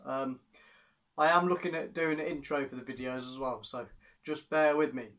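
muffled through helmet chin bar; speaking inside a helmet. Real, not acted. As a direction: voice enclosed by helmet shell. Seen 1: Full-face helmet worn, visor up, throughout; R frames hold it.

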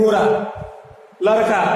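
घोड़ा said with a plain flapped र, not ड़; wrong र sound. Shown as a demonstration. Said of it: "ये जो कि बिल्कुल ही pronunciation गलत है". (गलत उच्चारण: ड़ की जगह र)

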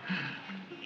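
brief, quiet laugh; soft chuckle. Acted. Man amused she never asked, chuckling softly. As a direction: chuckle under the breath.

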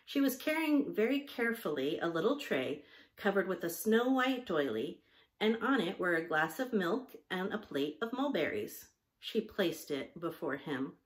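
measured storybook reading; story narration. A narrator's reading. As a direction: read the story aloud in clear phrases. Reads a story aloud.

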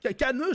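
"Ca-, ca-, ne" broken into separate syllables; split into syllables. Shown as a demonstration. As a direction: chop "Ca-, ca-, ne" beat by beat. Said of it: "je peux aussi le décomposer". ("Ca-, ca-, ne" découpé syllabe par syllabe)

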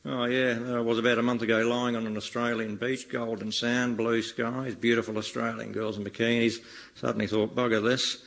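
broad mock Australian accent, hammed-up; comedy Australian accent, lightly done. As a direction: lay on a thick Aussie ocker accent. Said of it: "I'm Australian, mate".

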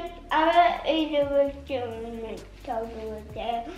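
talking while chewing; words round a bite of food; mouth full. Real, not acted. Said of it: "You can't talk with your mouth full".

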